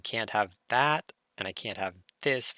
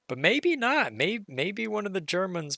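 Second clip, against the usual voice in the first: playful; 9 semitones higher than usual. Real, not acted. Playful second-guessing.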